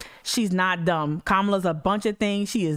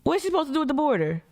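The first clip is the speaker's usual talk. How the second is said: fast, higher, exasperated question; 6 semitones higher, faster than usual. Real, not acted. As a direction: fire it off fast and high, fed up. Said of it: "repeated exasperated question".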